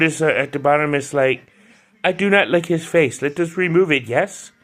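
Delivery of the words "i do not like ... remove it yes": a mild attempt at a Turkish accent; a lightly done Turkish accent. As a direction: read the villain's quote in a Turkish accent. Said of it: "That's my Turkish accent".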